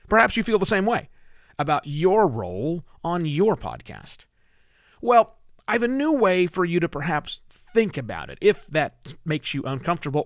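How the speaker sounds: projected, measured host delivery; scripted podcast read. Acted. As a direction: read the script to listeners, leaning on key words. Reads the episode script for recording.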